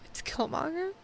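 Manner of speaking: stunned fan realizing who it is; shocked disbelief. Retold or imitated. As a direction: gasp it out in disbelief. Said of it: "You're like".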